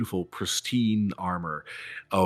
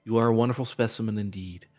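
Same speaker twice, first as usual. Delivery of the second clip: put-on a light Southern American accent held through a friendly speech; attempted American accent; 3 semitones higher than usual. Priestess Ophelia introduces herself to the acolyte, light Southern accent. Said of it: "trying to do an American accent".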